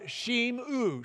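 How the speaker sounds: Shim-u said carefully, stress on Shim; Hebrew word shimu. Shown as a demonstration. Teacher spelling out Hebrew imperative, careful pronunciation. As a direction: sound out Shim-u syllable by syllable. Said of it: "Shim-u in this form".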